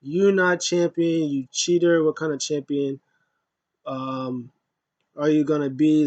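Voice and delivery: an indignant MVP rant, lightly acted; mock hissy fit. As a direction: scold him like a sore loser, half-hearted. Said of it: "M V P is having a hissy fit".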